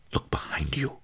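soft breathy urgent whisper. A narrator's reading. Master whispers a warning to the boy. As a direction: hush it, warn him without a sound. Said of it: "he whispered".

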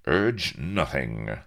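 slow, cold cut-in; coldly. Acted. Captain cuts off the ranting pirate, coldly. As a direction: shut him down coldly, drawing it out. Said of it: "said Avery coldly".

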